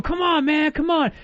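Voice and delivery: high, taunting come-on; mock karate challenge. Imitating the homeless man squaring up to fight. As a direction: bounce in a fighting stance.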